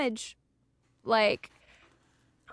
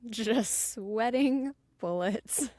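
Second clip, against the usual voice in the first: "Just sweating bullets" drawn out slowly; slow repeat; 4 dB quieter, much slower than usual. Shown as a demonstration. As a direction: stretch "sweating bullets" for effect.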